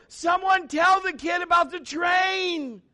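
high, slow exasperated shout; mock shout of frustration. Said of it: "I wanted to go".

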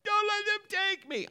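put-on high, loud terrified little girl cry; little daughter yelling for her dad from the hospital crib; child yelling. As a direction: scream it like a frightened child being wheeled away. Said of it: "and she was yelling".

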